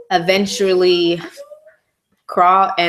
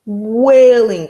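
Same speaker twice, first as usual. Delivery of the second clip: mock wail; 4 semitones higher, 6 dB louder than usual. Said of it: "like I'm about to do now".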